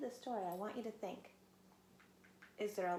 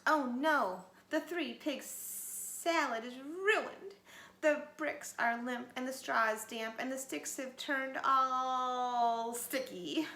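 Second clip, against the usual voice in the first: slow, loud drawn-out dismay; 3 semitones higher, 5 dB louder, slower than usual. Acted. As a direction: lament the ruined salad. Mother wolf dismayed.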